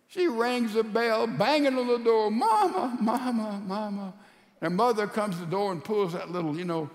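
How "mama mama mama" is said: high desperate call that fades; crying for mama. Acted. Daughter banging on her mother's door, crying out high. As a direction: call out high, then trail off tearfully.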